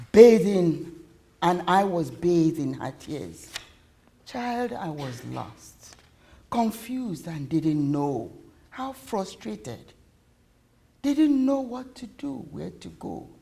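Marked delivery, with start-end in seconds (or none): 4.3-13.3 soft, slow, halting confession; remorseful confession. Acted. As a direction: admit it in broken, quiet phrases. Mother confesses after crying.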